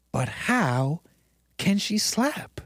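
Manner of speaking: very slow, drawn-out disbelief; mock baffled question. Host repeating the clip's question, slow and baffled. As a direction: stretch "slap" out in wonder. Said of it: "I'm left with the question".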